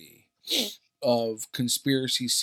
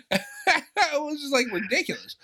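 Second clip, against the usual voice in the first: telling the Trump clip, laughing; laughing while talking. Real, not acted. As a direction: laugh through the words.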